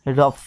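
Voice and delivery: रफ ending in an f sound. Shown as a demonstration. Teacher giving an example of GH, रफ said with final f. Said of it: "GH से फ का उच्चारण भी होता है".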